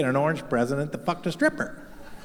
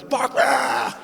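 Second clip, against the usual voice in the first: high defiant whoop; mock triumphant cheer; 8 semitones higher than usual. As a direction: celebrate like you just survived. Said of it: "gets up and goes".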